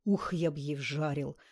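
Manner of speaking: медленно, сквозь зубы, пониже; цедить похабно; процедил сквозь зубы. Acted. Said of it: "процедил Туча и сплюнул". (Туча цедит вслед девушке, сквозь зубы)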